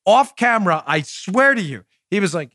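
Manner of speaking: ordinary talk, nothing marked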